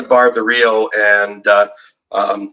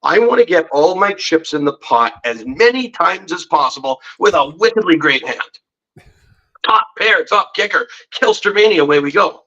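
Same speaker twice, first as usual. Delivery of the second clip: higher, cocky self-hype; pumped-up reckless brag, pitched up; gung-ho hype; 5 semitones higher than usual. Retold or imitated. His old reckless self hyping a big hand, higher and excited. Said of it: "'Cause my thought in the early stages of poker is".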